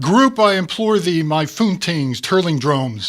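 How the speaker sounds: pompous Vogon poetry. Acted. Proud poet reciting his awful verse, loud and grand. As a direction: hams up dreadful alien poetry for his friends. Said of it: "tell him you like his work".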